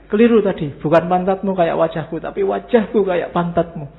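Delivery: hammed-up boss fixing his insult; angry boss. Boss correcting his rant at the driver, loud mock anger. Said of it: "majikan marah sama supirnya".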